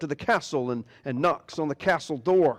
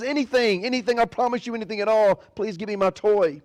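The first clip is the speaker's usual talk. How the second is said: eager pleading princess; 6 semitones higher than usual. Acted. Princess begging the frog.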